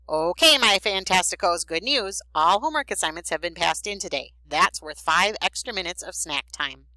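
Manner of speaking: teacher announcing. Acted. Teacher announces good news to class.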